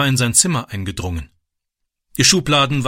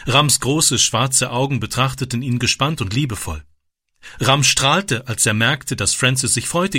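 ordinary delivery, nothing marked

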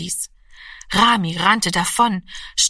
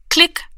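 very high, louder, short click; dial click; 10 semitones higher, 5 dB louder than usual. A narrator's reading. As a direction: pop the click sound out. Wählscheibe klickt. (hohes lautes Klicken)

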